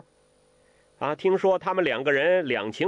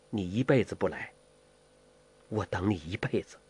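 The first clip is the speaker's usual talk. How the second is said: softened; 5 semitones lower than usual. A narrator's reading. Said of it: "当时就软了".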